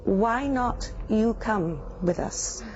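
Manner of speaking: slow, flat monotone delivery; monotone alien voice. Retold or imitated. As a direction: speak like an emotionless being. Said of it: "He said in a very monotoned voice".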